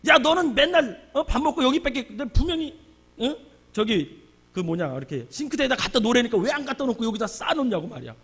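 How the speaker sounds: high-pitched scolding in fits and starts; nagging. Retold or imitated. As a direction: nag at someone about the mess. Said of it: "제가 맨날 잔소리하거든".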